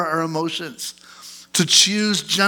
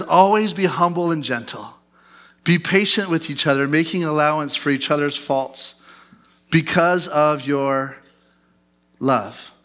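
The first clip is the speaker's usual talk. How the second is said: scripture reading. Acted. Scripture reading, slowing at end.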